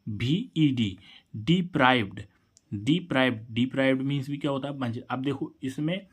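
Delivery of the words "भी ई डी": letters spelled out very slowly; slow dictation for students; slow spelling. Shown as a demonstration. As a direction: spell डीईपीआरआई भी ई डी letter by letter, drawn out. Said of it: "इसमें डी जोड़ रहे हैं".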